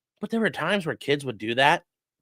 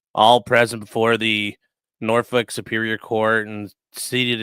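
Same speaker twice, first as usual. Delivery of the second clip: court crier; 6 semitones lower, slower than usual. Retold or imitated. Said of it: "he's like".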